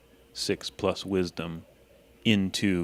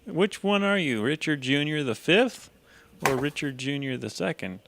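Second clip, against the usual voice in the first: high teasing greeting; 8 semitones higher, 3 dB louder than usual. Acted. Greeting arriving character mockingly.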